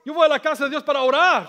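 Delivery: loud, acted self-important protest; indignant excuse. Churchgoer too busy for the man, loudly indignant.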